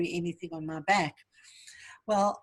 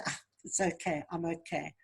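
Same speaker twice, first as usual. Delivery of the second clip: softer, dismissive "it's okay", waving the pain away; brushing it off; 2 semitones lower, 5 dB quieter than usual. Shown as a demonstration. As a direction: quietly shrug it off as if nothing happened. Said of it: "Don't just say".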